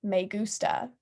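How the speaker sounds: flat deadpan robotic Spanish. Retold or imitated. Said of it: "just like that".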